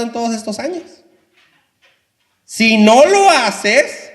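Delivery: loud, harsh, high threats to the pastor; angry soldier threat. Acted. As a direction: bark the ultimatum like a cruel soldier.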